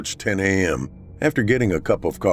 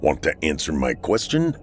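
slow cold threat; 2 semitones lower than usual. Acted. Hitman threatening at gunpoint.

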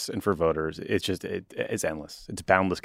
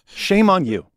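repeated louder and higher, scolding; louder second scold; 10 semitones higher, 4 dB louder, slower than usual. Real, not acted. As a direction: shame them for real this time. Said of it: "I do wanna say to the American media".

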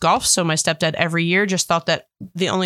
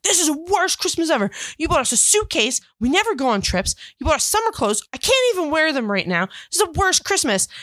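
higher, whiny mock-brat complaining; little brat; 8 semitones higher than usual. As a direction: sulk and whine like a spoiled nine-year-old. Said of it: "such a little brat".

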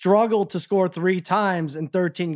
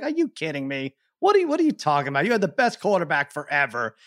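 can't believe what he's hearing; incredulous rant. Retold or imitated. Retold rant at co-host, rising.

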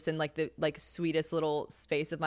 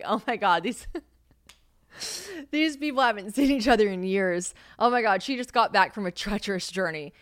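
higher, hammed-up awe with giggles; mock gushing onlookers; 3 semitones higher, 5 dB louder than usual. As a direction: gush like a bystander at a reunion. Voices gushing onlookers at the airport.

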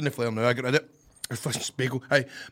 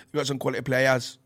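attempted Geordie accent. Shown as a demonstration. Guest demonstrates his Geordie with a remembered quote, attempted Geordie accent. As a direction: quote Gazza in shaky-grasp Geordie. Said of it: "my Geordie accent, as I remember".

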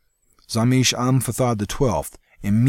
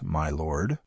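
wry; 3 semitones lower than usual. Acted. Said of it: "with a wry twist on the last two words".

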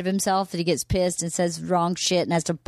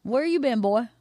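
imitating her family; 2 semitones higher than usual. Wife showing how her family sounds, lightly imitated. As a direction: greet someone with a hint of folksy twang. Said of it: "Like that".

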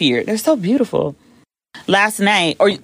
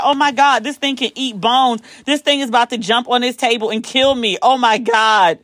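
higher-pitched, mildly panicked inner monologue; mock panic; 4 semitones higher than usual. Diner sees a supposed hyena nearby, mild mock panic. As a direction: replay the dread, lightly hammed-up.

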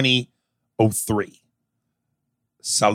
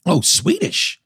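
mock Swedish; 5 semitones higher than usual.

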